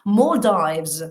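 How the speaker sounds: Maldives with a long O sound; Maldives, long vowel first; model pronunciation. Shown as a demonstration. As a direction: say Maldives as MOL-deevz. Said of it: "esa es una O larga".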